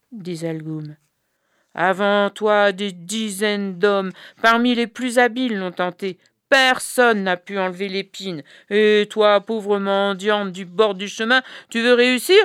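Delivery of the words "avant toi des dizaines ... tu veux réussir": mocking, raised voice of disdain; scornful wife. The brother's wife scoffing at the beggar, scornful. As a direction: belittle the poor beggar woman.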